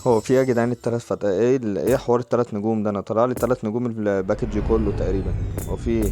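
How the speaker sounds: loud, fast, fed-up complaint; loud exasperation. Real, not acted. Gamer yells at three-star pack results, exasperated. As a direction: blurt out disbelief at bad luck.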